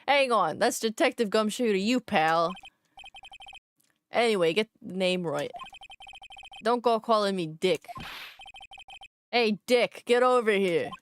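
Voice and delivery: brash, rough-and-ready Jersey detective; attempted Jersey accent. Detective correcting the lawyer on his name, attempted Jersey accent. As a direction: bark it in a shaky Jersey accent. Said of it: "He's gonna be fucking Jersey".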